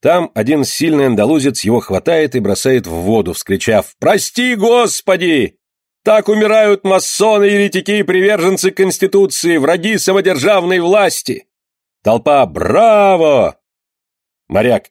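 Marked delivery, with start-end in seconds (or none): 4.0-11.5 much higher, ringing triumphant cry; fanatic shout. A narrator's reading. Andalusian throwing Flores into the sea, shouting high. 12.4-13.6 loud, full cry of approval; crowd cheer. A narrator's reading. Crowd to the Andalusian, loud cheer.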